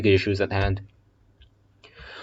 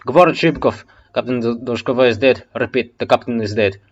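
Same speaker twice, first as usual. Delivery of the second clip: loud, higher soldier pleading for support; desperate radio call; 4 semitones higher, 6 dB louder than usual. Acted. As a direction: call for help as the line breaks. Soldier radios captain is dead.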